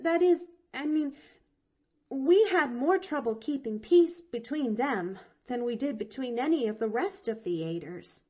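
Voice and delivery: put-on high, eager little girl; young girl voice. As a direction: chirp it out like a bright chatty child. Pollyanna rambles, breathless correcting.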